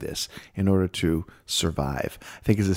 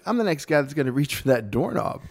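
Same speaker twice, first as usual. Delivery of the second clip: playful; 5 semitones higher than usual. Retold or imitated. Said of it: "I'm saying it like that".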